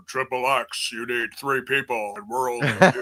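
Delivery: lightly imitated low-key wrestler promo. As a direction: retell it like a subdued promo. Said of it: "almost sounds like it's a low key".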